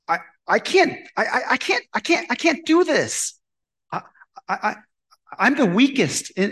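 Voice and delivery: a frightened man refusing the call; panicked stammer. Retold or imitated. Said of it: "Gideon's first response is like".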